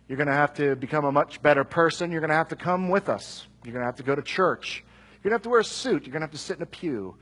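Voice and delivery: a lightly voiced preachy list of demands, quick in places; mock demanding. Preacher mocking what the apostles did not say, preachy list. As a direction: rattle off the rules like a stern churchman. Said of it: "They don't say".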